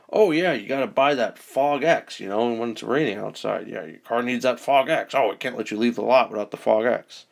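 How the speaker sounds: lightly voiced pushy car mechanic; a hint of a salesy mechanic upselling; mechanic impression. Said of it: "That was my mechanic impression".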